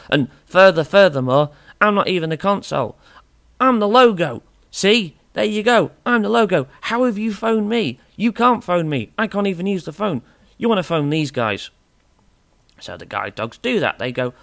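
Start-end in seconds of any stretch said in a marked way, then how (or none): 0.1-11.7 high, bright-eyed cartoon logo voice, pitched well up; squeaky talking logo. Dreamcast logo lecturing the guide dogs in a high squeaky voice. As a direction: play a chirpy little logo scolding the callers.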